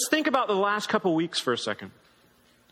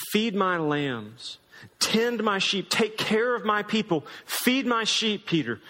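tender charge. Retold or imitated. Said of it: "Jesus invites Peter to".

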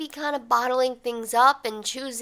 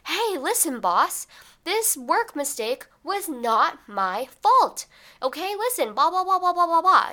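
much higher, louder mock retort; mock yelling back; 8 semitones higher, 3 dB louder than usual. Employee yelling back at boss, much higher mock retort. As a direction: pop off at the boss, hammed-up. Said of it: "might yell back and be like".

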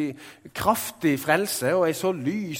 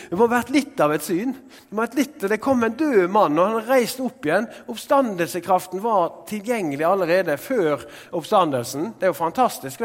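higher and louder, marvelling; preacher's rising amazement; excited; 4 semitones higher, 4 dB louder than usual. Real, not acted. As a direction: lift the room with wonder.

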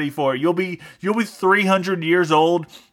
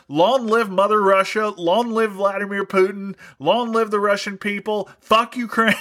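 hammed-up rising rally cry, higher each line; mock patriotic fervor; 5 semitones higher than usual. Host gets carried away cheering Russia to listeners, hammed-up rally cry. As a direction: get carried away hailing Mother Russia. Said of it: "I got carried away".

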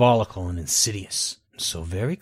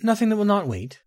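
said quickly; 10 semitones higher, 3 dB louder than usual. Acted. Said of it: "Baron Zaya said quickly".

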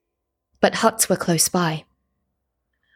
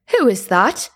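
calling out; 4 semitones higher, 4 dB louder than usual. A narrator's reading. Man hears the whistle.

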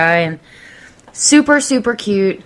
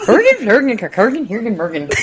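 Swedish Chef voice. Retold or imitated. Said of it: "the Swedish chef".

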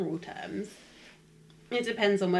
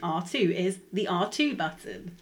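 mock manual reading; 6 dB louder, slower than usual. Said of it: "it'd be a picture of a controller with an arrow to the square button saying".

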